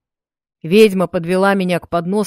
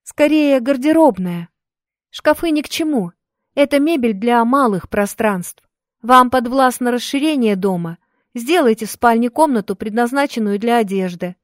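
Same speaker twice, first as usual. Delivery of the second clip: put-on lightly raised, eager girl; a bright young helper speaking; young woman voice; 5 semitones higher than usual. Maria voiced in story.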